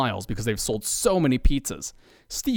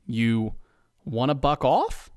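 pleasant; slower than usual. Acted. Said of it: "his most pleasant voice".

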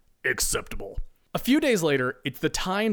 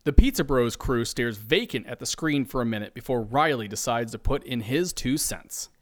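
ordinary delivery, nothing marked

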